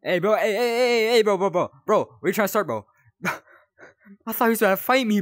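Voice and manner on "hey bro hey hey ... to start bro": loud, rising hey bro; alarmed calling out. Real, not acted. Player confronting a figure that seems to attack, alarmed shout. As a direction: call him off, loud and rattled.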